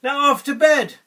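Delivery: put-on slow, high, loud grumble of an old priest; lightly voiced old priest sending a boy away; yawning old priest. A narrator's reading. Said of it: "yawned the old priest".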